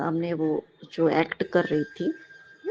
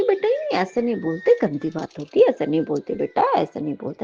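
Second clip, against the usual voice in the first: gentle scolding. Retold or imitated. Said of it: "मैंने उसको समझाया कि".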